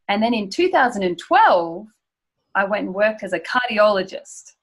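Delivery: "twelve" held longer with a rising tune, then a pause; stress key words. Shown as a demonstration. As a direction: lean on "twelve" and "cardiologist", pause between. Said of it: "you would really make sure you slow down and say that word".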